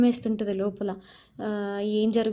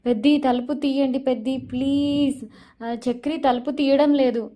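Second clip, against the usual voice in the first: retold crying plea; 4 semitones higher, 5 dB louder than usual. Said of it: "ఇంకా గట్టిగా ఏడుస్తూ ఉంటుంది".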